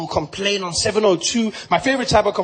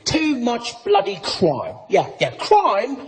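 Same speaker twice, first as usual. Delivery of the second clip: UK guy lecturing. Acted. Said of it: "this guy".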